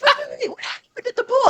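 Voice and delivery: wait, wait, wait, you can't stop there; confused reader wanting the rest of the story; frustrated reader. Retold or imitated.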